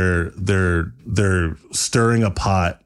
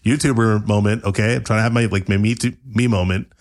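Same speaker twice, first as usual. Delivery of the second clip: annoyed YouTuber voice; 2 semitones higher, faster than usual. Acted.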